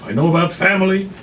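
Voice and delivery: high, loud, lightly voiced madam feigning heart; sly madam. Madam to the grandmother, mock sentimental, high and loud.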